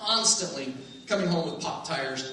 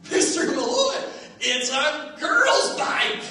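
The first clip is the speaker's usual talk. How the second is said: higher, slow mocking taunt; teasing friends; 8 semitones higher, 3 dB louder, slower than usual. Friends mocking him, higher slow taunt. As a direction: drag it out to tease him. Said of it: "they're saying".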